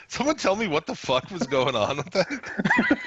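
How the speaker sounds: slow, laughing question; laughing disbelief. Real, not acted.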